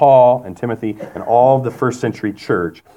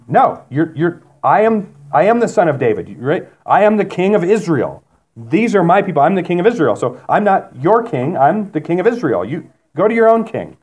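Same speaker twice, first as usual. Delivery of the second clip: higher-pitched, insistent mock refusal; acted rebuff; 5 semitones higher than usual. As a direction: act out a king turning a stranger away. Acting out Jesus rebuffing the woman.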